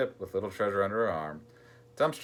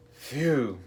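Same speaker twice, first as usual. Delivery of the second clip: loud, higher-pitched gasp of disgust; 5 semitones higher, 3 dB louder than usual. A narrator's reading. Con reacting to a nasty smell, gasping. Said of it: "gasped Con".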